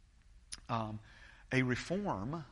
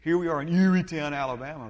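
loud, higher mock German accent; hammed-up German accent, much louder; thick German accent; 4 semitones higher, 12 dB louder than usual. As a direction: boom it out like a German friend. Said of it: "That thick German accent".

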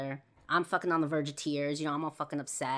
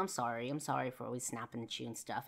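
apologetic; 4 semitones lower, 5 dB quieter than usual. Retold or imitated. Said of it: "I apologized to him".

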